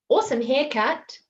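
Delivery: casual compliment opening right on "Awesome"; cut-off casual form. Shown as a demonstration. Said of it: "rather than".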